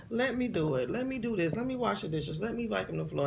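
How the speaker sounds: put-on a little girl asking to do the chores; pleading little child. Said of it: "and you would say".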